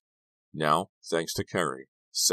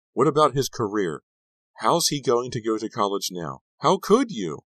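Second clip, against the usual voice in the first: high, loud outrage building to a cry; yell, climbing higher at the end; frantic yelling; 7 semitones higher, 5 dB louder than usual. A narrator's reading. Girlfriend berating Kerry over college, frantic yelling. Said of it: "Sharon yelled".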